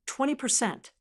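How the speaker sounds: breathy, astonished question on Twenty percent, feigned; faked surprise to keep the con going; mock gasp. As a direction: fake amazement at Twenty percent, lightly gasped. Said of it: "I gasped".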